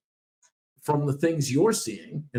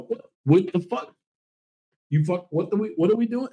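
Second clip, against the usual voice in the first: mock angry owner; 5 semitones higher, 4 dB louder than usual. Imitates owner losing temper.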